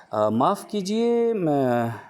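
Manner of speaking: high, polite excuse-me voice; polite request. Shown as a demonstration. Teacher acts out politely asking a stranger's attention, high-pitched. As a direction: act out politely stopping a stranger. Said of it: "बोलने के तरीके से समझ रहे हैं".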